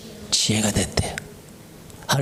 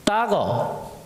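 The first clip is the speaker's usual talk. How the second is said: mock Chinese; 5 semitones higher, 3 dB quieter, much slower than usual.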